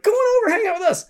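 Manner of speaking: upbeat invitation. Retold or imitated. Camp buddies inviting scared girl, high upbeat call.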